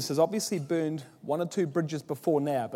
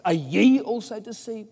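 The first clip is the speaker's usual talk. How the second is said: higher, louder scornful sneer at the officers; mocking Pharisees; 5 semitones higher, 5 dB louder than usual. Pharisees scoffing at their own officers, higher and louder scorn. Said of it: "they say".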